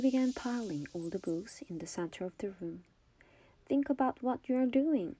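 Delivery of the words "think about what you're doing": loud, higher pleading cry. A narrator's reading. Miss Catherine pleads with the mob, crying out loud. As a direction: cry out over the mob's noise. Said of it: "cried Miss Catherine".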